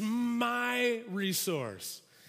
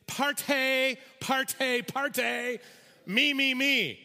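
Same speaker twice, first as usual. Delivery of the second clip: louder, higher grabbing chant of parte and me; greedy mock; 4 semitones higher, 3 dB louder, much slower than usual. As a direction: sing out parte, parte, parte, me, me, me like a greedy child. Greedy translation, mocking.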